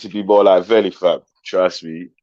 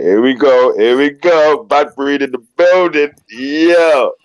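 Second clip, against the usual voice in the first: hyped welcome; 6 semitones higher, 5 dB louder, slower than usual. Real, not acted. Hypes a caller joining the stream.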